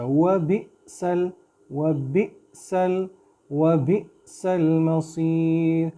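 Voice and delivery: व बि सल with a tiny catch after बि; slight jerk. Shown as a demonstration. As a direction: give a light stop on the hamza in व बि सल. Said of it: "इसको आप झटका सा देंगे".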